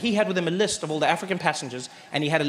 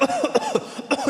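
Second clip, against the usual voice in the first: mock cough. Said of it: "I was like".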